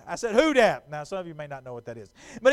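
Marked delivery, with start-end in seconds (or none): 0.3-0.9 casual Saints fan call; easygoing New Orleans fan greeting. Retold or imitated. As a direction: toss out the Saints cheer. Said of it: "in Saints fashion".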